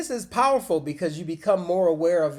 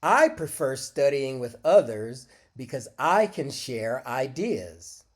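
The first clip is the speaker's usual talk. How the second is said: model answer. Shown as a demonstration. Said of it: "listen to how I answer".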